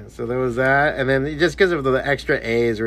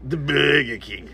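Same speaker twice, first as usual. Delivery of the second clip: exaggerated English accent, drawn-out vowel; comic English accent, slow; imitated English accent; 3 semitones higher, slower than usual. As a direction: stretch BURGER in a mock English accent. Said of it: "He said it like that".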